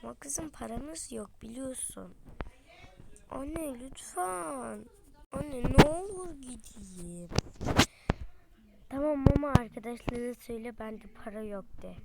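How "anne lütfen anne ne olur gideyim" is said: pleading. Acted. Daughter begging to go out.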